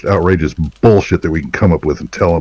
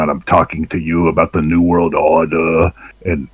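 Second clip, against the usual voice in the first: Machiavellian voice. Pretend. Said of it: "I'm in my Machiavellian voice now".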